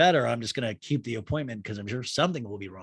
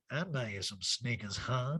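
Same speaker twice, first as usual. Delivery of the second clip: Erica imitation; 3 semitones lower, 8 dB quieter, slower than usual. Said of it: "Wouldn't it be great if Erica's like".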